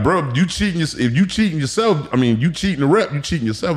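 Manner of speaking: high, lightly mocking coach voice; imitating the coach. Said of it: "hearing you like".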